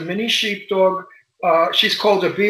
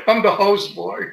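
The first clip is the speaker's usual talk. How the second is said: laughing; 3 semitones higher than usual. Real, not acted. Laughs at own joke.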